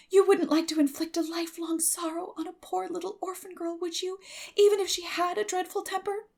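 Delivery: put-on a dramatic orphan girl begging for pardon; young Anne pleading. A narrator's reading.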